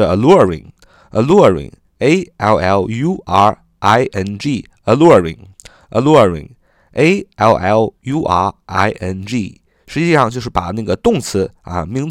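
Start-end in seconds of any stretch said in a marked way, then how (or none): 0.0-9.6 slow spelling. Shown as a demonstration. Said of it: "在形容词形式是".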